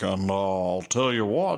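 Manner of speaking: slow, drawn-out white guy voice. Retold or imitated. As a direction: do Chappelle doing a white guy. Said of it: "Chappelle's like".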